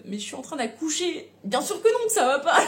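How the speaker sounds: mock outrage, laughing it off; exasperated inner outburst. Mother in labour snapping at the doctors, exasperated. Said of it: "je suis en mode".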